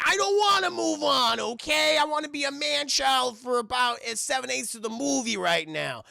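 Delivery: loud, high tantrum easing off; defiant outburst. Acted. Davey refusing to move on, loud petulant outburst. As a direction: blurt it out loudly, then settle.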